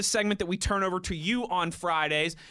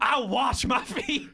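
slow, drawn-out mock voice of a co-host; a slow, exaggerated take on a colleague; Wes Euler impression; 3 semitones higher, much slower than usual. Reading out a tweet, slow mock voice. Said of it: "in my Wes Euler voice".

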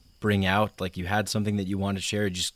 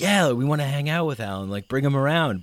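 higher-pitched, welcoming group of pals; eager friends; 5 semitones higher, 3 dB louder than usual. Acted. Friends inviting Alan to hang out, eagerly. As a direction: play friends keen to have him along.

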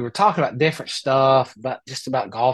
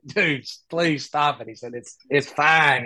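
reassuring; slower than usual. Retold or imitated. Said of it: "he's like".

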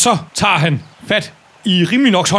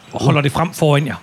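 normal talking voice

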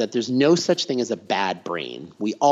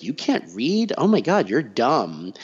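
role-played taunt. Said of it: "we role played".

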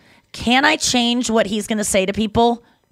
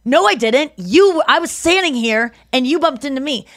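defensive retort; 4 semitones higher than usual. Retold or imitated. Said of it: "It's gonna be like".

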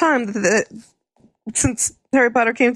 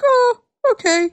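mock shrug; 14 semitones higher, 3 dB louder, slower than usual. Bookies reacting to Harry surviving.

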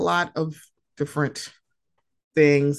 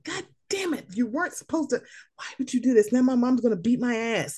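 imitating scared son; 6 semitones higher, faster than usual. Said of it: "It's like".

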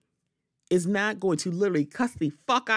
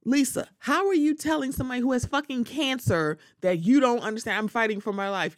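imagined Gertie voice; 6 semitones higher than usual. Retold or imitated. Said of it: "it's like".

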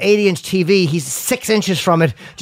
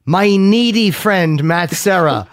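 slow dictation with spoken punctuation; mock dictating correction; voice texting dictation; slower than usual. Shown as a demonstration. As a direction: dictate to the phone, deliberately. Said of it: "voice texting".

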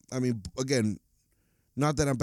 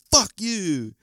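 high, louder mimicked curse; mock player taunt; 8 semitones higher, 6 dB louder than usual. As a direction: spit it at the stands. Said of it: "And then he was like".

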